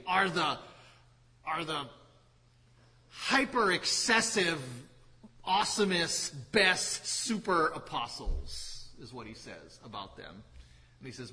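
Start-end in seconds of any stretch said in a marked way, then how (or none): 0.0-8.9 mock-boastful sarcasm, a touch higher on hyper; sarcastic. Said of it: "and he says it sarcastically".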